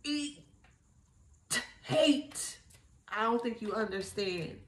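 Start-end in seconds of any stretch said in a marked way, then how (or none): 1.8-2.6 "hate" pitched higher and falling; stressed word. Shown as a demonstration. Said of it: "emphasis on the".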